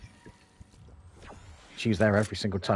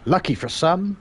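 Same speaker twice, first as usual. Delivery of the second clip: higher, louder bingo call; bingo caller; 7 semitones higher, 4 dB louder than usual. Pretend. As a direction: sing it out to the hall. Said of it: "a shout out".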